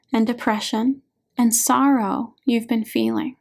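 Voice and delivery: ordinary delivery, nothing marked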